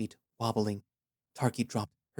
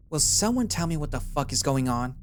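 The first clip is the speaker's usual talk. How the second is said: higher, louder demanding badger voice; angry confused warrior; 5 semitones higher, 5 dB louder than usual. A narrator's reading. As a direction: demand answers, spear raised.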